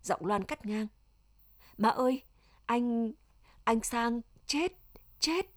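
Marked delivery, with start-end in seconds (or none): 1.8-5.5 halting cry with broken repeats; understated wail of horrified discovery; anguished cry. A narrator's reading. Loan tells her mother that Sang is dead, crying out. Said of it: "Loan gào lên".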